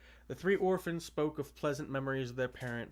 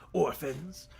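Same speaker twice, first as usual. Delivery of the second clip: scratchy calling; 3 semitones higher, 3 dB louder than usual. Acted. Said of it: "called in his scratchy voice".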